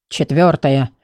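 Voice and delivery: low, mumbled grumble. Acted. The grumpy book mumbles to Dilly, unclear. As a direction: mutter it under your breath, low. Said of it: "непонятно буркнул".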